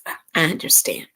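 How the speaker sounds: soft voiceless "I understand"; whispered understanding. Real, not acted. Host sympathizing with a viewer's comment in a whisper. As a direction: breathe "I understand" almost silently.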